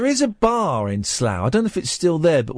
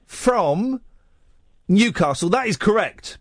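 deliberate rebuttal; 4 semitones higher than usual. Real, not acted. Host spells out his objection.

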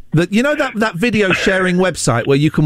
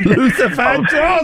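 higher, slow, drawn-out announcer call; hyped announcement; 9 semitones higher, slower than usual. Real, not acted. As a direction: sell the name like a big intro. Presenter hyping the next song.

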